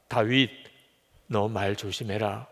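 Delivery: low, slow, measured admonition; lightly voiced God, grave and deliberate; solemn divine warning. God's warning to David, acted.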